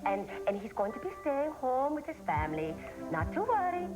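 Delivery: put-on comic Swedish-accented secretary. Posing as personal secretary to call off the search, put-on Swedish accent. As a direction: play a helpful secretary with a fake Swedish accent. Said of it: "You sound funny with that accent".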